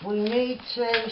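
talking with a pin in mouth; speaking round a pin in the lips; mouth full. Real, not acted. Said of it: "I'm talking with a pin in my mouth".

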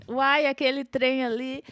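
put-on Goiás accent. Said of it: "Aí eu falava assim".

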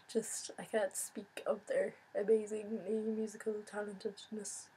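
whispered posh English accent put-on; mock English accent, hushed; soft exaggerated English accent. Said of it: "That was English".

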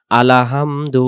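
আলাহামদু with an extra vowel after আল; wrong way. Shown as a demonstration. Teacher showing students the mistaken reading. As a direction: say আলাহামদু, inserting আ between আল and হামদু. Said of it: "আল হামদু উচ্চারণ যেন না হয়".

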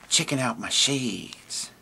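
laid-back camel, slow and soft. Acted. Camel puppet answers the host.

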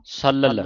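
ਸਲਲ as sa-lal, both l's clear; two-l pronunciation. Shown as a demonstration. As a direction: sound each l of ਸਲਲ. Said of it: "ਇਸ ਤਰ੍ਹਾਂ ਪੜ੍ਹਨਾ".

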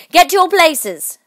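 high, loud, drawn-out command; booming shouted queen; voice of thunder. A narrator's reading. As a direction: thunder the order. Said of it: "in a voice of thunder".

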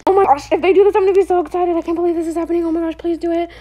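can barely contain the excitement; squealing with hope; excited. Real, not acted. Hoping a trade gets accepted.

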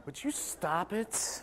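slow laughing protest. Real, not acted. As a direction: laugh through a mock scolding. Audience laughing at rim job.

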